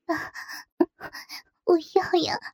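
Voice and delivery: a touch of a whiny coo; coquettish whine. A narrator's reading. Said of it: "我嗲嗲地说".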